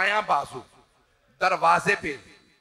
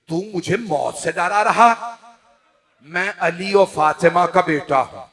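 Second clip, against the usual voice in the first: defiant, raised voice, louder; 6 dB louder than usual. Acted. Imam defying the governor's threat, raised voice. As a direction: answer the threat loudly and unafraid. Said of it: "मौला का आवाज का बुलंद करना".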